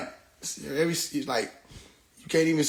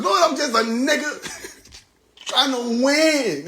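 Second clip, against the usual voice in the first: mocking the lyric; 5 semitones higher, slower than usual. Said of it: "call that nigga and tell him".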